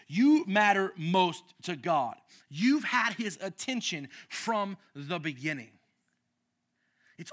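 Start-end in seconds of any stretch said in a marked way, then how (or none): 0.1-5.7 emphatic declaration. Acted. Pastor declares to congregation.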